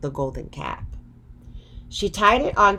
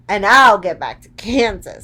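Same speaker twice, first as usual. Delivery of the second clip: louder hopeful Dorothy; a girl dreaming of home, a touch louder; Dorothy, eager; 2 semitones higher, 7 dB louder than usual. A narrator's reading. Dorothy joining her friends, louder and hopeful. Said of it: "said Dorothy".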